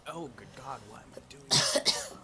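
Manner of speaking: wincing at sour drink; strained by sour taste; sour taste reaction. Real, not acted. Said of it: "I have to get used to that taste".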